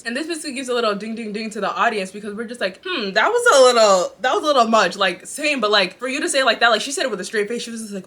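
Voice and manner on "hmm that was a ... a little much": judgy. Retold or imitated. Audience reacting, drawn out.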